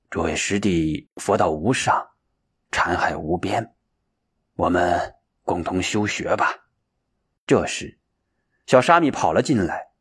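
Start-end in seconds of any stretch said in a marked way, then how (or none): 0.1-6.6 low, soft, restrained emotion; moved. A narrator's reading. Shenxiu addressing his junior brothers, quietly moved. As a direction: address them solemnly, quietly stirred. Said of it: "神情激动地说".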